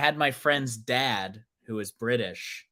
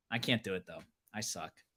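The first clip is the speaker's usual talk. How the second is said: ordinary delivery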